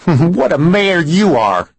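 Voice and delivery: slow, dripping with sarcasm; mock the mayor with scorn; heavy sarcasm. A narrator's reading. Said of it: "he said with heavy sarcasm".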